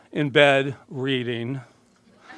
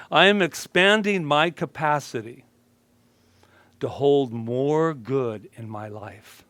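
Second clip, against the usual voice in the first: mantra. Shown as a demonstration. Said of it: "a new mantra that I want to share".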